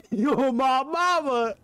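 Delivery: high, slow frightened wail; scared cry. Real, not acted. Gamer cries out after a jump scare, high and slow.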